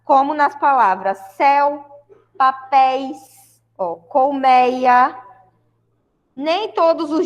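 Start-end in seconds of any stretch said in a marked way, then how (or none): 1.4-3.6 "céu, papéis" with open é, spaced out; open diphthongs. Shown as a demonstration. Teacher showing open diphthongs to the class, open-vowel demonstration. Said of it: "com o som mais aberto". 3.9-5.2 "colmeia" drawn out slowly with an open é; open diphthong. Shown as a demonstration. Teacher giving the class an example word, "colmeia" slow and open. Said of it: "com o som mais aberto".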